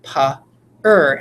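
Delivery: slow, drawn-out "per", sounded "pa, er"; slow teacher prompt; stretched-out word. Shown as a demonstration. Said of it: "And then I say".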